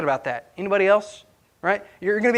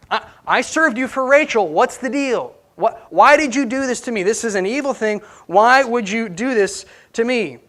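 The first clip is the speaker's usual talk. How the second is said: imitating angry Jacob. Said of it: "Jacob is ticked off. He's heated".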